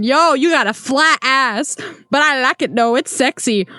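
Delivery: mild mock holler; half-hearted called-out catcall; retold catcall scream. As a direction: imitate a catcaller without really shouting. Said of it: "screams to the woman".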